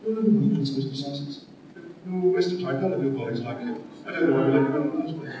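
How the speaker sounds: lightly mimicked bully, soft and airy; bully's aerated voice. Imitating the drama school bully who bullied everyone, aerated voice. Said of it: "with a very high, very aerated voice".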